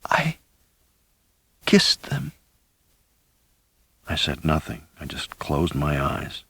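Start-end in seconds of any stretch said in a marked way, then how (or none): 0.0-2.3 soft high whisper; barely there, tender; faint tender whisper. A narrator's reading. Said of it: "she whispered".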